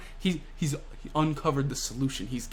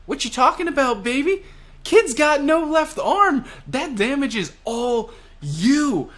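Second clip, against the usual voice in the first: gloating taunt; 12 semitones higher, 5 dB louder than usual. Retold or imitated. Killer to Hawkins, hammed-up gloating taunt. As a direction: crow it in the opponent's face, voice pitched way up.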